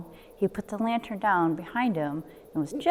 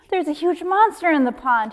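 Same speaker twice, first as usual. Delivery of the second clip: higher, louder panicked Frog; frightened cry; 8 semitones higher, 3 dB louder than usual. Acted. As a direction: blurt it out in fright. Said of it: "he cried".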